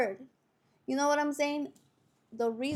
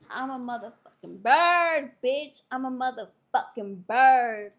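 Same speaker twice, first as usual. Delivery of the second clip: reenacted shout; 6 dB louder than usual. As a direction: holler it proudly out a car window. Acts out shouting from car window.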